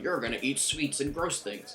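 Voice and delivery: a teasing take on a nagging friend; mock nagging voice. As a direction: mimic a scolding friend. Mocking another girl's nagging.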